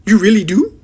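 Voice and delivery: delighted. A narrator's reading. Giant hearing Sophie loves his talk, high overjoyed question. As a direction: beam as you ask it again. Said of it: "suddenly brightening".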